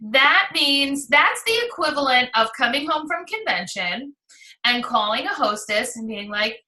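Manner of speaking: usual speaking voice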